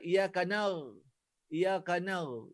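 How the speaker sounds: iyaka na- slow, ain turned to ghain; ghain sound. Shown as a demonstration. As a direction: let the ain slide into ghain. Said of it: "Kadang ghain pun jadi". (ain jadi ghain)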